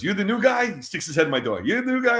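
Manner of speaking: Keith's nosy greeting. Retold or imitated. Colleague sticking his head in the door, curious high-pitched question. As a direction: poke in with a high, curious query.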